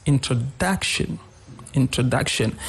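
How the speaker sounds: introduction with the stress on the third syllable, DUC. Shown as a demonstration. Teacher showing word stress to radio listeners, introduction stressed on DUC. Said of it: "the third syllable has a stress".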